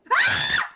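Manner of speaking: short, startling shout; sudden yell. Real, not acted. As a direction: burst out with a brief yell. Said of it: "Bağırma oğlum ben korktum". (ani, kısa bir bağırış)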